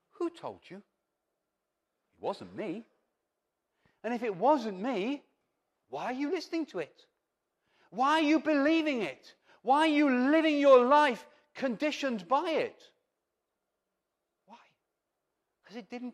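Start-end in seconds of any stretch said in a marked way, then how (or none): 0.1-2.9 tender question. Acted. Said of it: "the heart and the voice behind". 4.0-12.9 rising from strong to a high full-voiced cry; building preaching. Preacher pleading with the congregation, building to a loud cry.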